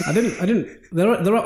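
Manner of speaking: tripping over his words, flustered; stuttering. Real, not acted. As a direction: stammer through it nervously. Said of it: "See how he's stuttering?".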